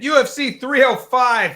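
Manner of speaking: put-on high, loud, slow announcer call with no Australian accent; accent dropped, announcer. Host giving up the Australian accent, announcing the card plainly loud. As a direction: drop the Australian accent and just announce it big. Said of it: "I cannot do that accent".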